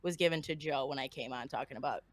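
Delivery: stuffy, nasally voice; blocked nose. Real, not acted. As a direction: talk through a blocked nose. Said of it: "like, nasally right now".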